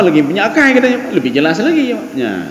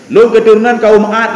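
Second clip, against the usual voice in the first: louder, slower boasting claim; louder mock boast; 2 semitones higher, 5 dB louder than usual. Preacher mocks a liar claiming descent, louder and slower. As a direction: puff it up loudly like a braggart. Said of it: "Bohong dia".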